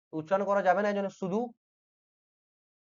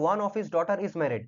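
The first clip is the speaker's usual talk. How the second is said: slow dictation; much slower than usual. Shown as a demonstration. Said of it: "এবার দেখো".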